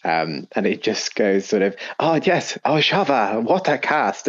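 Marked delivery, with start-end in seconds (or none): 2.0-4.3 mock Tau voice. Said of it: "he just turns inherently racist".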